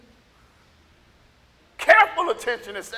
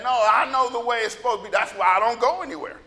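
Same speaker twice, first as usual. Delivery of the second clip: mildly acted self-righteous certainty; lightly mock someone sure they know best; 3 dB louder than usual. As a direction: imitate a know-it-all believer. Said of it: "they become very self-righteous".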